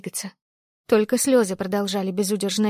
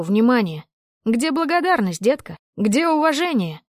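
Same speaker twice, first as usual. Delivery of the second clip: put-on drunken fury. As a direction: spit the insults at her. Drunk man berates cornered woman.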